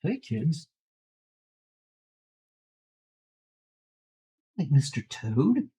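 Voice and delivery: put-on cheery old TV commercial voice; peppy announcer selling to kids; chipper 1950s ad. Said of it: "the worst Christmas commercial ever".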